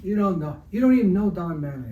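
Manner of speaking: hammed-up scornful threat; threatening retold. Yankees rep scoffing at the artist over Mattingly, mock angry. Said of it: "he literally threatened me".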